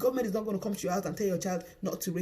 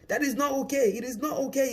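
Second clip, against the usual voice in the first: louder and higher, indignant; firm, raised protest; outraged rebuke; 6 semitones higher, 5 dB louder than usual. Real, not acted. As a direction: come down hard on it, offended.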